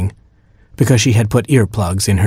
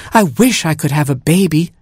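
crying queen; 6 semitones higher than usual. Acted. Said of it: "she cried".

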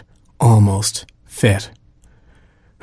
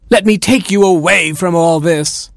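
romantic cry; 7 semitones higher than usual. Acted. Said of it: "cried the prince".

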